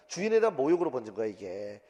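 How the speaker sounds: ordinary talk, nothing marked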